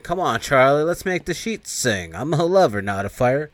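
hammed-up seductive demon; demon temptress. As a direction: tease him like a sultry monster. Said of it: "the demon's like".

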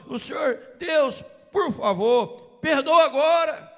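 loud, rising plea to God that swells to cries; fervent prayer. Acted. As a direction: pray it out, pushing harder with each line. Preacher prays aloud, building. (oração fervorosa, cada vez mais alta)

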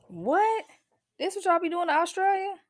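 a mock shocked wife; imitating the wife. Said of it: "that wife was like".

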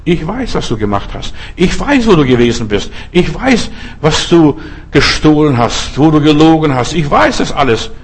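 lightly voiced taunting threat, pitch swinging up and down; drohender Teufel. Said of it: "Der Teufel droht dich mit deiner Vergangenheit". (leicht gespielt drohend, wie ein wissender Ankläger)

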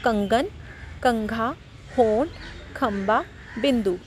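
कंगन, कंघा, होंठ, खंबा, बिंदु each with a light half-n; one word at a time, brief nasal inside; half N sound. Shown as a demonstration. Teacher drills anusvar words, a light half-n in each. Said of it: "आधे ना की sound आएगी".

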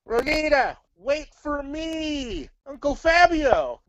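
high desperate call. Acted. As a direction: cry out after them. Calling after leaving puppet.

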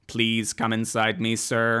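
drawn-out seductive sex-bot read; sultry robot voice. Retold or imitated. Co-host mocks the sex robot with a slow, seductive line. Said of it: "would have sounded a little bit more like".

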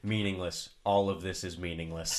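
low, understated imitation of a calm reader; calm meme reading. Retelling a meme of odd Bible verses, calmly. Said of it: "in very calm ways".

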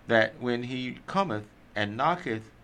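slow, measured Bible reading; scripture reading. Acted. Church member reading Luke twelve to the group, scripture reading. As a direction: read the verse out deliberately, word by word.

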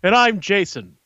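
slow, measured news reporter read; a touch of live TV correspondent. Pretend. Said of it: "I just wanted to put on my reporter voice".

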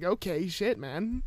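softly retold, taken-aback concession; not mad. Replying to the guy's hostile text, mildly taken aback. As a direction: back off quietly, no anger in it. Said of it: "I wasn't mad at him".

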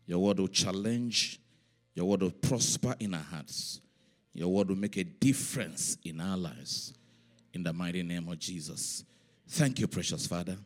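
earnest congregational prayer; public prayer. Real, not acted. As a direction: pray it out phrase by phrase, leaning on key words. Leads prayer before reading.

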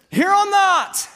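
high, slow, comic refusal; mock reluctance. The preacher mocks his young self turning God down, high and slow. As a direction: drag it out as a sheepish no. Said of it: "I said".

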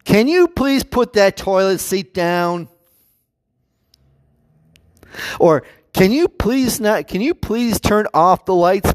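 slow, exaggeratedly polite asking; politely nagging a housemate over habits; polite request. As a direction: ask sweetly, drawing it out. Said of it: "that very peaceful notice".

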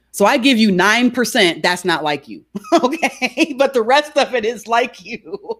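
laughing through a joking retort. Retold or imitated. Coach teasing a client about the nine percent, laughing. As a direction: tease it, breaking into laughter.

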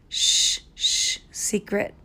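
toonloos gefluisterd, zacht en langzaam; whispered secret. Pretend. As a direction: fluister het als een geheim. Teasing a secret, hushed.

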